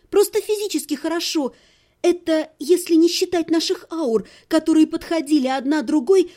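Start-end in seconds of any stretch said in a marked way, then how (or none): none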